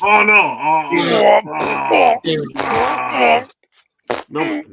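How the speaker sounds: high, loud cries of disgust; real loud dismay. Real, not acted. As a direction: cry out in revulsion. Disgusted reaction to nose blowing.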